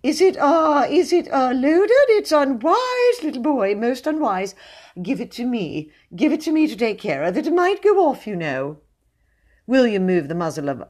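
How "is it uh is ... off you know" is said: frightened, faltering pleading; nervous coward coaxing a child; quavering, high-pitched voice. A narrator's reading. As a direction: fret at the captor in a very high voice. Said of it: "The first note of the quavering, high-pitched voice".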